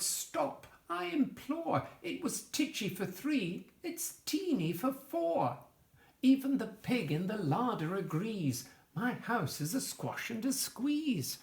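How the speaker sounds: put-on high-pitched pleading old lady, near wailing; frantic old lady. Old lady begs the wise man, pitched high and desperate. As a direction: cry out high like a harried grandma.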